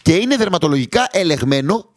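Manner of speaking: lightly voiced product pitch; ad read. Host reading the sponsor ad, light ad-read tone.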